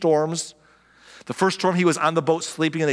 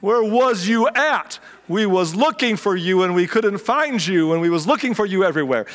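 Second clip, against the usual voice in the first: mock frantic crowd; 4 semitones higher than usual. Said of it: "And they're like".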